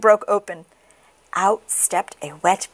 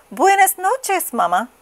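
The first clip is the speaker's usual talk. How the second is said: put-on high baby chick goodnight; sleepy baby chick; 11 semitones higher than usual.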